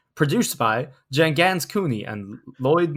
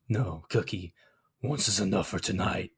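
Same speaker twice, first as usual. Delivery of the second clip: sighing; 4 semitones lower, 7 dB quieter than usual. Acted. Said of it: "he sighs".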